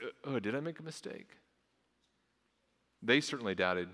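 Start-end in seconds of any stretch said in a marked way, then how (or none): 0.0-1.3 second-guessing worry. Retold or imitated. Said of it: "Just like".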